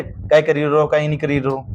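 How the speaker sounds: lightly voiced local dialect phrase; a hint of rural Rajasthani dialect; regional dialect demo. Shown as a demonstration. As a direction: say it like a village dialect speaker, casually. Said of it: "झाड़ में अलग बोली बोलेंगे".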